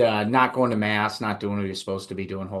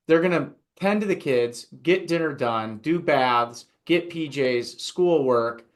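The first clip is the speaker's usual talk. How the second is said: mildly raised, lightly voiced stern rector; half-acted scolding of a sleepy seminarian, a touch higher; rector's lecture; 4 semitones higher than usual. Rector scolding a seminarian who slept in, mildly raised. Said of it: "he'd say".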